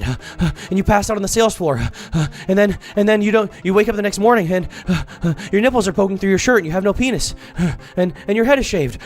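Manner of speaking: fast, breathless mock creep with huffs; panting creep. Mocking the salesman as a breathless creep. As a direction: huff between phrases like a wired creep. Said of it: "like, out of breath".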